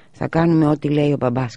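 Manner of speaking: "Θα κάνουμε ό,τι λέει ο μπαμπάς" with each word stressed; word-by-word emphasis. A narrator's reading. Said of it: "τόνιζε τις λέξεις μία-μία".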